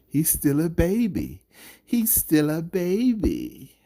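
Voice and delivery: high, loud British mock voice, slowing on the repeat; mocking Eddie Hearn's English accent; Eddie Hearn impression. Vlogger mimics promoter Eddie Hearn calling Joshua a baby, mock British voice. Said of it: "heard Eddie Hearn refer to Anthony Joshua as a baby".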